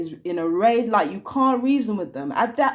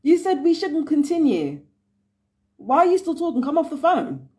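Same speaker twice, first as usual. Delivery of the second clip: higher, louder, fed-up yelling at the screen; exasperated yelling; 6 semitones higher, 3 dB louder than usual. Real, not acted. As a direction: yell at someone who won't hang up.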